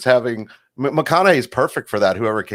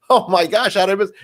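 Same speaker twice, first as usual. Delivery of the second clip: high-pitched retold astonishment; surprised reaction; 8 semitones higher than usual. Viewer spots friend in commercial, surprised exclamation. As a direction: react in mild shock, pitched up.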